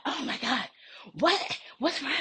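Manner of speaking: high, mock-innocent what's wrong; lightly mimicked surprise. Imitating the coworker playing innocent, lightly voiced. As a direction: act out her feigned innocence. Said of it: "And she was like".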